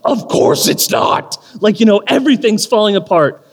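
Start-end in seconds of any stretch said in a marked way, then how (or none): 0.0-1.4 panicked whisper. Retold or imitated. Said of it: "And I'm like".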